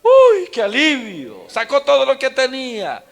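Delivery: high, loud, drawn-out relieved gloating; mocking a venting wife. Priest mimics a wife relieved after cursing her husband, loud and high. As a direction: lampoon a wife savoring having told her husband off. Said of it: "se desahoga y bien feliz queda".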